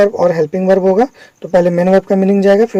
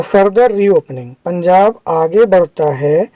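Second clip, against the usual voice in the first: slow reading; slower than usual. Shown as a demonstration. Teacher reads the headline word by word.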